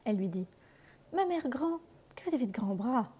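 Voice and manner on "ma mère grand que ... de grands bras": put-on high, wondering little girl; astonished girl. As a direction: marvel like a curious child. La fillette s'étonne. (fillette étonnée, voix haute)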